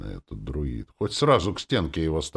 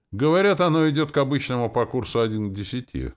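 usual speaking voice

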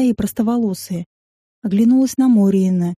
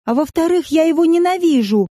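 higher, loud angry outburst; blurted loudly; 7 semitones higher than usual. Acted. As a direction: blurt it out in anger. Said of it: "я громко выпалила".

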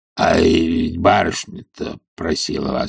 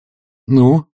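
impatient; 7 semitones higher, 5 dB louder than usual. A narrator's reading. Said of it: "нетерпеливо спросил Обломов".

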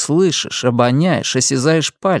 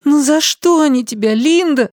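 put-on child's question; 14 semitones higher, 3 dB louder than usual. A narrator's reading. The boy asks Linda why they beat her, small voice. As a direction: ask gently like a hurt child. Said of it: "спросил он вечером".

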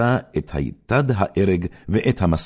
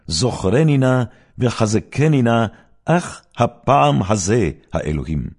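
loud, raised urgent prayer; fervent plea; 6 semitones higher, 5 dB louder than usual. Acted. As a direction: beg God for strength one last time. Samson prays before his death. (תחינה נלהבת ורמה)

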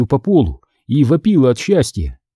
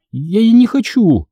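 high, protesting voice; resisting; 9 semitones higher than usual. A narrator's reading. Girl refusing to walk into fire, resisting. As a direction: balk at it, pitch well up. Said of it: "сопротивлялась та".

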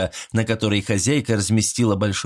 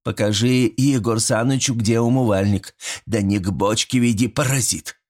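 stern tone; 2 semitones higher than usual. Acted. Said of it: "строгим тоном велела".

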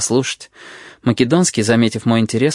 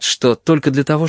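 ordinary delivery, nothing marked

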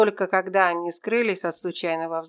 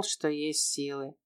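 plain reading voice

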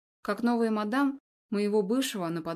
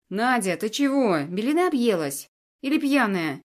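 louder, alarmed man's voice; horrified; 6 dB louder than usual. Acted. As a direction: blurt it out in alarm. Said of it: "В ужасе откликается Тарганов".

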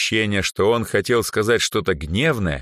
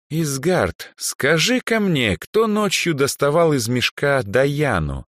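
higher, slow probing mage voice; old archmage; 9 semitones higher, 3 dB louder, slower than usual. Acted. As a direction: squint and press the elf slowly. Old archmage Andre questions elf. (старый архимаг, медленно выспрашивает)

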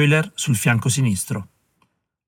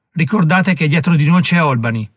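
grido; 4 semitones higher than usual. Acted. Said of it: "gridò più forte".

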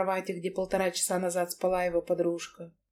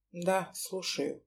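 slow, soft half-asleep mumble; sleepy grumble; 3 semitones lower, 9 dB quieter, much slower than usual. Acted. Max answers the phone half-asleep, slow soft grumble. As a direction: mumble it from under the covers. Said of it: "пробурчал".

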